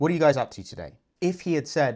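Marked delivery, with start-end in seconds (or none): 0.0-0.9 downward inflection closing on today, falling pitch. Showing a sense of finality in a question, falling pitch on today. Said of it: "You end it on a downward inflection".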